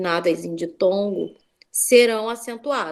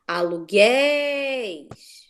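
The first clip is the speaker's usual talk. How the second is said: slow teaching read; much slower than usual. Shown as a demonstration. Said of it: "Onde é o acento?".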